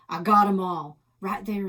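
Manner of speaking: loud gunslinger shout; hammed-up Western holler; mock triumphant yell. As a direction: bellow the win over the bandits. Shootout in pretend game.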